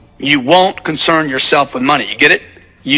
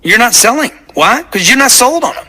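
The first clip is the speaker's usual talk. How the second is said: fired-up lecture; 4 semitones higher than usual. Retold or imitated. Telling the finance guy he's not sold, fired-up and high. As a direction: pitch pushed higher, emphatic retold lecture. Lecturing the salesman in a retold talk.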